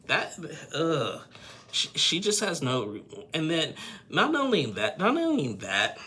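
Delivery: fired up and outraged; indignant. Real, not acted. Indignant rant about Marissa.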